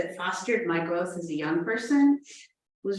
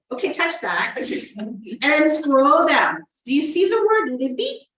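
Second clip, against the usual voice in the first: patient tech helper; 6 semitones higher, 5 dB louder than usual. Acted. Acting out virtual tech help.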